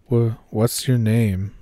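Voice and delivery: nervous stammer, slow; stammering with fear; stutter. Retold or imitated. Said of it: "I managed to stutter out".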